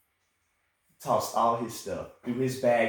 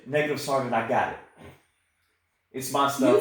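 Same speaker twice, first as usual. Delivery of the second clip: proper soldier's reply; 2 semitones higher, 6 dB louder than usual. Retold or imitated. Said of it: "you're supposed to say".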